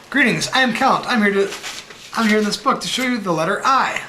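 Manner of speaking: a hint of the Count greeting the reader; Count Dracula. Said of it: "See Count, Count Dracula?".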